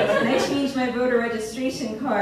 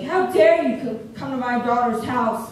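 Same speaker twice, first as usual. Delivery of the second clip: indignant mom. Retold or imitated. Mom scolding trooper by phone.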